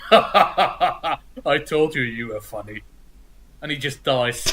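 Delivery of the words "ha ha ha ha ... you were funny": laughing out a retold line, then dropping low; weak chuckle fading into a low last line; dying laugh. Retelling Parademon's death, laugh then low fade. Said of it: "And then Parademon goes".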